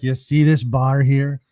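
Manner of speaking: slow, lightly attempted Scottish accent; bad Scottish accent. Old pub regular showing off his bar, shaky Scottish accent. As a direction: have a loose go at a Scottish old man. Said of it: "It's supposed to be a Scottish accent".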